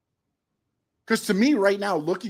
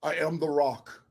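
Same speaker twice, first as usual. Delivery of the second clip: lower, softer stiff announcer voice; deadpan like a stiff man on the mic; imitating TK; 5 semitones lower, 6 dB quieter than usual. Co-host mocking TK's stiff mic delivery, imitating. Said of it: "he's like".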